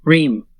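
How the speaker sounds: "Reem" held lightly on the vowel; "Reem" with a long, falling ee; lightly sustained. Shown as a demonstration. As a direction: sustain "Reem" gently, then let it fall. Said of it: "Sustain it lightly".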